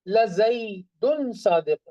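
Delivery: slow stress on "Zaidun"; insistent, lengthened "Zaidun"; emphatic assertion. Shown as a demonstration. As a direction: draw out "Zaidun" to convince a doubter. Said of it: "they are still in doubt, so you will say".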